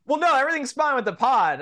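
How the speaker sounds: high-pitched retold reply through amusement; amused, high-voiced self-imitation; retold reassurance. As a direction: quote yourself hurriedly reassuring, voice way up. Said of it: "And I'm like".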